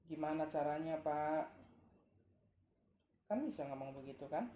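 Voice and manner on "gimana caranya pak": asking nicely. Shown as a demonstration. Father models for his child how to ask him, asking nicely. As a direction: politely ask dad how to do it. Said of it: "ngomong baik-baik".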